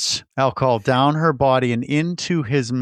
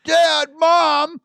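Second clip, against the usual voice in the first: high, whiny complaining voice; whiny Cheech; 14 semitones higher, 4 dB louder than usual. Retold or imitated. Cheech whining to the bartender about being beaten up, high whiny voice. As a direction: whine it like a beaten-up man. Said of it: "he's all whiny".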